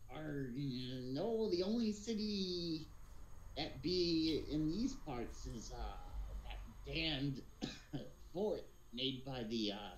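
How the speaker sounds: lightly voiced pirate, drawn-out words; a hint of a slow old pirate. Pirate answering a lost stranger about the only city, lightly voiced pirate. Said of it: "being able to do a pirate voice".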